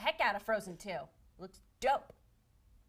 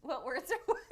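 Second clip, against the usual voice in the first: laughing imitation. Mocking Brett, laughing.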